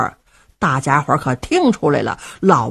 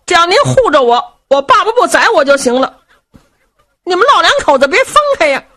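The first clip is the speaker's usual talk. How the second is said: pleading son; 11 semitones higher, 4 dB louder, faster than usual. Acted.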